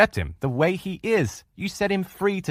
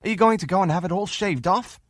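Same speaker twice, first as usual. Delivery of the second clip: mock horror; 9 semitones higher than usual. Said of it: "Not one of you would say".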